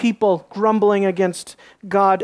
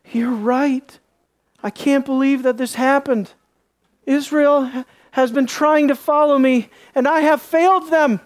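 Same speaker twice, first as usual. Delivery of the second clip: mildly hammed-up apology, rising in pitch; mock contrition; 3 semitones higher than usual. Preacher voicing an apologetic God to Joshua, mock contrite. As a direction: play at being a sorry God, pitch climbing.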